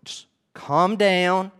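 a soft, soothing voice to the angry council; calming advice. Retold or imitated. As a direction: talk a furious man down gently. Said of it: "what Gamaliel is saying is".

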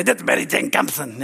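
a hint of an impression of a bag lady; low, mildly imitated visitor at the door; Betty Jane Cumpston. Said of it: "that's how she talked".

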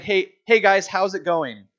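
breezy, offhand hello; casual greeting. Retold or imitated. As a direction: toss it off like meeting friends on the street. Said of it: "It would be like".

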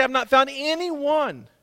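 slow, building to a full shout; Jesus praising the church. Pretend. Jesus pointing out the El Paso church, slow then shouting. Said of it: "and say".

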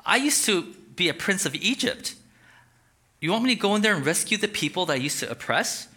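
doubtful Moses. Acted. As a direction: protest nervously.

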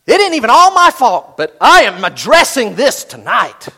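high, loud determined vow; hammed-up resolve, loud; mock determined vow. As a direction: declare it like you mean it. Spouse's vow in the car.

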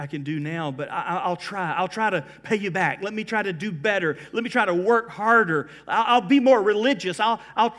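apology building to earnest pleading; pleading promises. Acted. Sinner promising to pay God back, building plea.

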